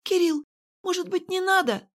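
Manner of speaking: high, timid objection; hesitant Irene. A narrator's reading. Irene to Kirill, high and timid. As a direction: gently try to hold him back.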